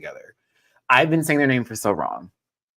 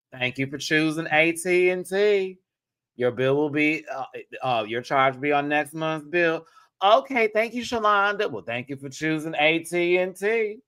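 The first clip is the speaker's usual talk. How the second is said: lilting scripted phone-agent voice; customer service agent; 3 semitones higher than usual. Acted. Streamer quoting an American Dad joke, phone agent voice. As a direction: recite the sign-off in an airy sing-song.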